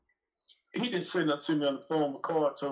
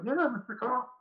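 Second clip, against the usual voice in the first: imitating the girlfriend; 9 semitones higher than usual. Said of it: "she was like".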